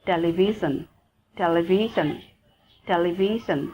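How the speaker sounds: "television" with a zh in the middle; zh example word. Shown as a demonstration. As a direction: model "television" word by word for learners. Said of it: "Like this example is an".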